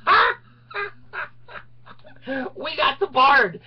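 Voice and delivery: high, loud jeering laugh; mocking gloat. Gloating attorneys taunting the Bard, high jeering laugh. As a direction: cackle at him like you've won.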